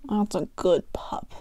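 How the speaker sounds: hoarse mumble through a mouthful; mouth full. Acted. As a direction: mumble it round a bite. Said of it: "mumbled hoarsely with a mouthful".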